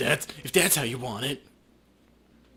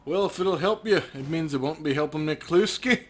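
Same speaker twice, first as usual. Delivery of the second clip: a hint of a chummy cop, a bit higher and louder; lightly voiced officer, slower at the end; 3 semitones higher, 4 dB louder than usual. Officer agreeing to hand over the necklace, lightly voiced cop. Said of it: "Officer Aguirre".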